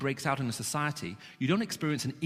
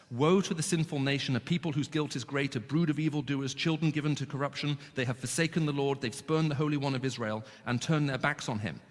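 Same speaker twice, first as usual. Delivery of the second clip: solemn reading of scripture. Acted. Preacher reads God's words to his people, solemn. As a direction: read the prophet's warning to the nation. Reads Isaiah passage aloud.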